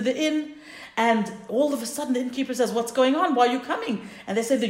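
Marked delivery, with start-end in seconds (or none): 2.7-4.1 puzzled, higher-pitched questions; bewildered questioning. Retold or imitated. Innkeeper to crowds flocking to his inn, bewildered questioning. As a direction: ask it as a mildly baffled host.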